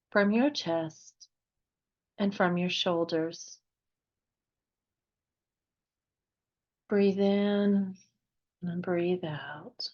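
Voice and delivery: unhurried meditation guide, long pauses between phrases; guided meditation. Real, not acted. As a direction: gently lead listeners into relaxation, phrase by phrase.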